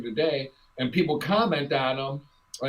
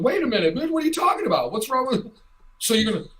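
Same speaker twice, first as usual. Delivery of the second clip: higher, indignant mock protest; offended cook; 5 semitones higher than usual. Cook at Ramshorn objects to the NHL, indignant and higher. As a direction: play the insulted cook, pitched up in disbelief. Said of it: "Ramshorn goes".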